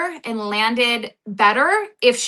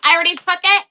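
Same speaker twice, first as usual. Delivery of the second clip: raised, sassy i-told-you-so; smug retort; 4 semitones higher than usual. Pretend. Cast member taunting accusers about her test results, sassy. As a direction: flaunt that the results are in. Imagined retort on reality show.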